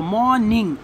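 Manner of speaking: first half of "मॉर्निंग", brief gap, then the second; split into syllables. Shown as a demonstration. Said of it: "पहले हम मॉ बोलते हैं".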